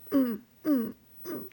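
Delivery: brief, spaced mock grunts; small repeated comic grunts; thrusting grunts. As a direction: imitate grunts of effort. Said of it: "thrusting in his face".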